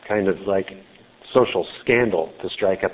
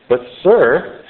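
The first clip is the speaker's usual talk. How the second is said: sarcastic; 6 semitones higher, 6 dB louder than usual. Acted. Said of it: "you can almost sense the sarcasm in her voice".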